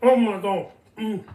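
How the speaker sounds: talking through a hot mouthful; mouth full of hot food. Real, not acted. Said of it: "I just burned my mouth".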